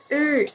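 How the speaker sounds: இல் with the tongue curled back; retroflex ila. Shown as a demonstration. Teacher showing kids the curled-tongue இல். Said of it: "எப்படி சொல்லணும்?".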